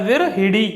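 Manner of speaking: विरहिड़ी said with a short i after ह, "vir-hi-ri"; correct form. Shown as a demonstration. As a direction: pronounce विरहिड़ी with a clear छोटी इ on ह. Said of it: "ह पर छोटी ई की मात्रा". (विरहिड़ी में ह पर छोटी इ साफ़ बोलें)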